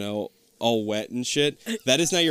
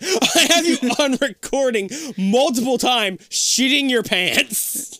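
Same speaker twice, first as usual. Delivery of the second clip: laughing; 12 semitones higher, 5 dB louder, slower than usual. Real, not acted. Teasing friend while laughing.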